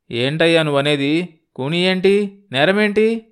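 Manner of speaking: rising pitch, incredulous questions; bewildered. Acted. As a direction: demand to know what he means. Accused man questions visitor.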